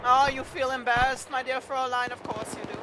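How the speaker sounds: strip the prisoner's kit piece by piece in a hammed German accent; mock German accent. Officer confiscating the prisoner's gear, in a mock German accent. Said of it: "you really gotta work on your German accent".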